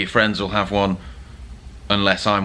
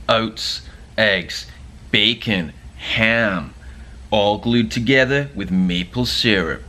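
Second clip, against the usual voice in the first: bad Canadian accent; a clumsy stab at a Canadian accent; slower than usual. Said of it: "terrible Canadian accent".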